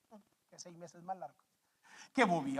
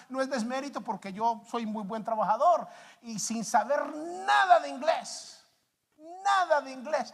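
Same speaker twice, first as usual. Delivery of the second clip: fervent preaching; 4 semitones higher, 3 dB louder than usual. Acted. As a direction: preach it with full force from the pulpit. Preaching testimony with force.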